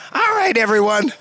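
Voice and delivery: jovial holler to round up a crowd; calling to a crowd. Retold or imitated. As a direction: imitate a buddy rallying the whole gang. Rallies a crowd to breakfast.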